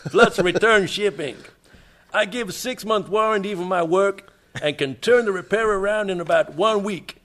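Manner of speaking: reading in a mock New York American accent, Russian-tinged; a half-hearted New York accent; attempted New York accent. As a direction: put on a shaky New York accent for the letter. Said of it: "You sound like a Russian by way of New York".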